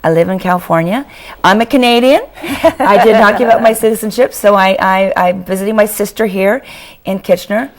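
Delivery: losing her voice, hoarse; strained, worn-out voice. Real, not acted. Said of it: "I have lost my voice".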